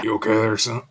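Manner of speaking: grizzled Southern lawman; southern accent. Acted. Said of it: "why do I keep doing a southern accent".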